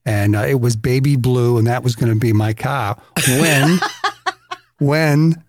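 storytelling in a put-on Boston accent. Shown as a demonstration. Recalling mom's old Valiant, in a Boston accent. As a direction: talk like a Boston radio host. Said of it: "gonna talk like they talked".

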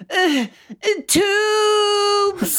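high, shouted call of tubes; yelling. Acted. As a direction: call out the word. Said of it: "and I yell".

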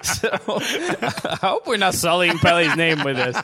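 put-on light British accent; light mock British accent. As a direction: keep the fake British voice going. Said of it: "Great British accent".

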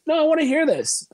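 high mock teacher insisting; teacher refusing to let him skip. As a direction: pitch way up, imitating the teacher. Teacher voiced in retold story.

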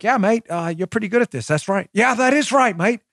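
rough attempt at an Australian or Kiwi accent; put-on Australian mate-speak. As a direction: imitate an interviewer with an amateur Aussie accent. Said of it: "more of a Kiwi or an Australian accent".

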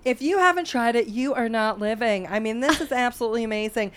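home shopping host. Pretend. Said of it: "They'd be like".

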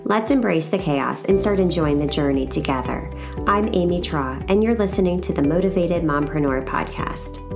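upbeat scripted show opener; podcast intro read. Real, not acted. Host welcomes mompreneurs to her show, scripted intro read.

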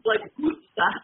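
"Worcester" as "Wuss-tah", no r; Boston-style Worcester. Retold or imitated. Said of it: "maybe it's just the accent".

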